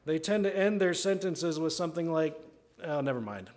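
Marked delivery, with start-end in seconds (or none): 2.8-3.5 mildly deflated dismissal; resigned little brush-off; doubtful. Acted. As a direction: give up on your own idea. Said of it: "then they're stricken with doubt".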